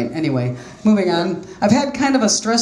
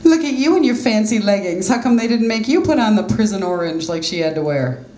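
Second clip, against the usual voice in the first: put-on cocky girl; 3 semitones higher than usual. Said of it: "this cocky young girl".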